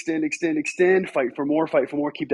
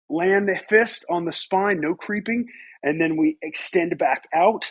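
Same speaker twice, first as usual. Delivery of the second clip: slow; 5 semitones higher than usual. Shown as a demonstration. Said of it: "That's about the speed I want".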